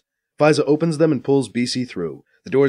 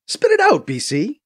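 berating; 11 semitones higher, 3 dB louder than usual. A narrator's reading. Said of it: "Faiza berates him".

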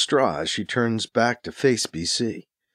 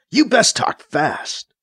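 near snarl; 7 semitones higher, slower than usual. A narrator's reading. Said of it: "B C nearly snarls".

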